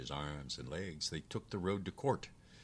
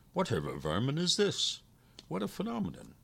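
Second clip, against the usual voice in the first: astonished, pitch leaping very high; exclaimed surprise; 10 semitones higher, 3 dB louder than usual. A narrator's reading. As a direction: exclaim it in amazement, rising sharply. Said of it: "exclaimed in surprise".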